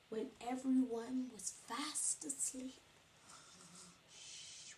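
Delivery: soft, whispered bedtime hush. Acted. Teacher hushing the class as animals sleep, whispered. Everyone asleep, hushed.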